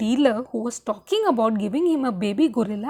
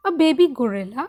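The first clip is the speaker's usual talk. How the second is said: nonchalant; faster than usual. Acted. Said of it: "I said nonchalantly".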